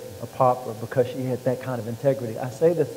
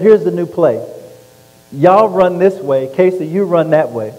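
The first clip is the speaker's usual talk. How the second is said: loud, higher, slow coach calling the play; 6 semitones higher, 9 dB louder than usual. Retold or imitated. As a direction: bark out the play like a sideline coach. Coach drawing up a dumb play.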